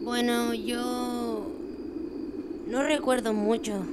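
halting, softened start with a pause; hesitant. Acted. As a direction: trail off on the second word, unsure. Child reluctant to recall accident.

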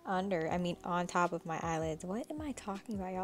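talking around a retainer; slightly lisped retainer speech; wearing a retainer. Real, not acted. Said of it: "I have my retainers in and I can, oh my God, I can't speak".

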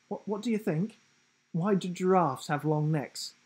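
a cheeky riddling giraffe. A narrator's reading.

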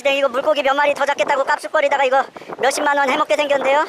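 ordinary talk, nothing marked

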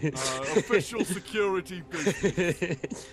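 high, breezy innocent act; casual guard act. Acted. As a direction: play it casual, nothing to see. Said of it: "he's like".

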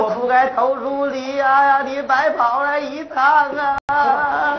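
drawn-out, chanting mock sobs; hammed-up wailing. Fake customer begging the boss's forgiveness by phone, wailing. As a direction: wail the apology in long, stretched syllables. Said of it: "您别哭了好不好".

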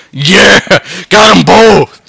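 excited cheer. Real, not acted. Double kill celebration.

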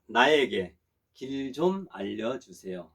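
slow, relaxed and clear; slow casual model. Shown as a demonstration. Teacher repeats the casual request for students, slow and relaxed. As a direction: lay it out slowly and easily. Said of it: "좀 이렇게 편안하게 할 수가 있습니다".

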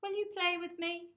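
very high, loud eager ask; excited child voice. Acted. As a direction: ask hopefully and brightly. Both friends ask together.

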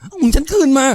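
high, slow demand for it back; furious demand. Acted. Woman demands money back. (ทวงเสียงสูงอย่างโกรธ)

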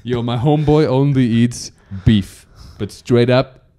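lightly put-on street accent; a hint of imitated street-slang accent; ghetto-style accent. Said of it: "I sound so ghetto right now".

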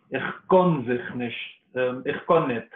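KANN with a rounded o-like vowel; Polish Yiddish form. Shown as a demonstration. Student quoting Hagrid's Polish Yiddish, KANN as kon. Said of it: "noch ein polish Element".

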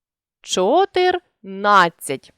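чотирнадцять drawn out slowly, with the third syllable stressed; slow чотирнадцять and hit the third syllable; teacher showing stress on the third syllable. Shown as a demonstration. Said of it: "на третьому".

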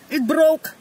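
high dismayed squeak; dismayed high cry. Real, not acted. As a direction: cry out as it snaps. Plant snaps.

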